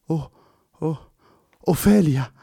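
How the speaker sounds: high, drawn-out hissed name; Fernando hissing slowly. A narrator's reading. Fernando staring at the girl, slow hissing recognition. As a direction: let the name seep out slowly. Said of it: "sibilò lentamente Fernando".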